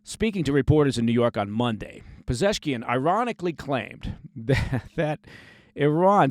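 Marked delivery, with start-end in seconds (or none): 2.3-6.3 breaking into real laughter mid-sentence; laughing. Real, not acted. News host cracking up at an Iranian president's claim, laughing. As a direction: stumble on the words as laughter takes over. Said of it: "sorry for laughing".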